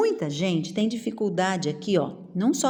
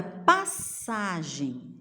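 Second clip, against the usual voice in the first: 拉长音节; 3 semitones lower, 4 dB quieter, much slower than usual. Shown as a demonstration. Teacher sounding out syllables.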